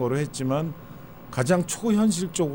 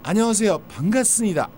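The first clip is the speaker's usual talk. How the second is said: Japanese accent Korean; 6 semitones higher than usual. Shown as a demonstration. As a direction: greet like a Japanese speaker. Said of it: "톤이".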